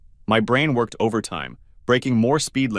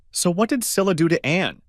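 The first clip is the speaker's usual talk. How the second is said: demanding; 8 semitones higher than usual. Acted. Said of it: "demanded I".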